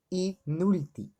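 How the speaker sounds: "inútil" said slowly, i, then a stressed NÚ; stress on the penultimate. Shown as a demonstration. Teacher giving an example of llanas, "inútil" slow with stress on NÚ. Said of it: "elas têm a sílaba tônica concentrada".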